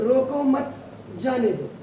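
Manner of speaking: "रोको मत" said as one unit, then a break before "जाने दो"; group मत with रोको, pause, then "जाने दो"; pause after मत. Shown as a demonstration. Teacher showing how a comma changes meaning, pause after मत. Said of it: "where we are keeping the comma".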